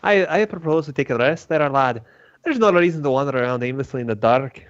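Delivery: lightly voiced character with an accent; in-character adventurer. Proposing a rest to the party, in character. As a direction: speak as the adventurer addressing a lad.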